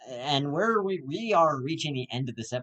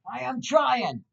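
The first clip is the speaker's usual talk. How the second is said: high pleading yell back; exasperated retort; 10 semitones higher, slower than usual. Acted. Podcaster yells back at driver, high exasperated. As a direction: shout back that you're trying. Acted drive-thru quarrel.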